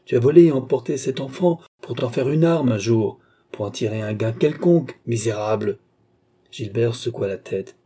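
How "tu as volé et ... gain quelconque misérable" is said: loud at first, indignant charge; acted outrage; angry accusation. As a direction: hurl the accusation, then settle into contempt. Enraged accusation in acted quarrel.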